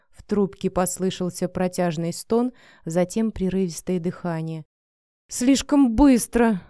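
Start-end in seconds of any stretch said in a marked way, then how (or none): 5.3-6.6 whining. A narrator's reading. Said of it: "заныл мужчина".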